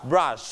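"brush" with a drawn-out shhh; long SH. Shown as a demonstration. Teacher models for repetition, "brush" ending in long SH. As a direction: hold the final SH of "brush". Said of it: "จะเสียงยาวนะครับ".

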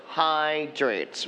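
"hydrates" with a long, weighted "hy"; stress on "hy". Shown as a demonstration. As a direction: lean on the first part of "hydrates". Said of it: "stress on the third syllables". (เน้นเสียง "hy" ใน "hydrates")

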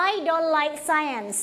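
I don't like science said slowly and clearly for the class to repeat; slow it right down so they can echo; slow choral model. Shown as a demonstration. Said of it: "say it together". (ครูอ่าน I don't like science ช้าๆ ให้นักเรียนพูดตาม)

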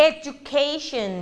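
Education drawn out slowly; slow model. Shown as a demonstration. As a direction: stretch Education out for the class to copy. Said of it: "อ่านคำนี้ตามกันค่ะ".

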